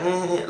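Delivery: soft, short mocking "mm"; mimicking hum. Girlfriend's mom mimicking him, soft mocking hum. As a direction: imitate someone copying you with a quiet hum. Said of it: "she was mimicking me".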